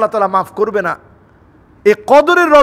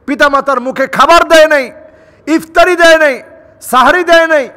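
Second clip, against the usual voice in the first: raised, forceful list building in pitch; emphatic preaching; 5 semitones higher, 3 dB louder than usual. Real, not acted. Preacher denouncing children who neglect parents, raised emphatic delivery. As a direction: hammer each neglect, higher and higher.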